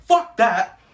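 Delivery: angry dismissal. Retold or imitated. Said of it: "I was like".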